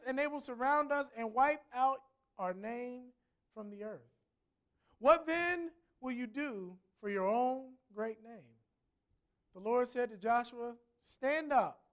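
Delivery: measured, solemn Bible reading; formal scripture recitation. Acted. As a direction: read the passage aloud deliberately, with pauses between phrases. Reads scripture aloud.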